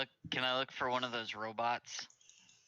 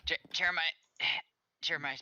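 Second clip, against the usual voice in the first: calling out; 5 semitones higher, 5 dB louder, faster than usual. Acted. Calling for Jeremiah at door.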